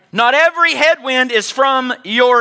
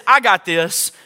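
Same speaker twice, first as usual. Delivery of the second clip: firm, self-assured claim; prideful boasting; 3 semitones lower than usual. Acted. Preacher contrasting Pride with Peace, mildly cocky. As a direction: assert it like Pride would. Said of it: "Pride says".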